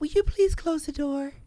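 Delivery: play-acted sugary, very high, polite sweet voice. Showing how some people ask for the door to be closed, in a mock sweet voice. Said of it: "such a sweet voice".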